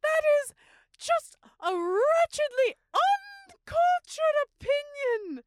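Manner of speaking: haughty opera diva. Acted.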